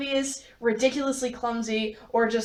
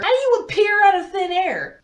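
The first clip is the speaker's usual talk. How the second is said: a touch of shock; 8 semitones higher, 5 dB louder than usual. Acted. Bo shocked, Edith appeared.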